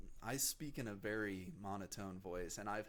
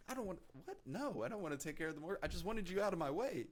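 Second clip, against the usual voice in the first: imitating flustered teen self; 9 semitones higher, faster than usual. Teen retorts to dad, high.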